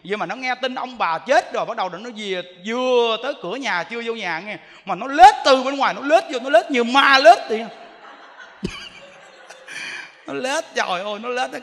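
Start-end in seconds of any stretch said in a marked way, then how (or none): none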